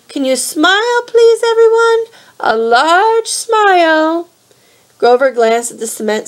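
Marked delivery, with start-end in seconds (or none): 0.1-4.3 put-on high, slow sugary old-lady coaxing; a sweet old lady drawing out the smile. A narrator's reading. Auntie Em coaxing for photo.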